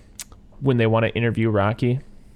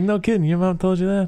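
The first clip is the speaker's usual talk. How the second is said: higher-pitched mock astonishment; imitating surprised Rocky; 7 semitones higher than usual. Quoting Rocky reacting to what her mom said, mock surprise. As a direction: lift the whole question in disbelief.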